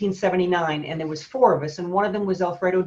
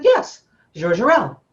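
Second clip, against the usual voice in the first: Yes, George Hurrell said slowly with a French zh in George, louder; the French agent confirming the name, in accent; imitating a French accent; 5 dB louder, slower than usual. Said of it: "she was very heavy French accent".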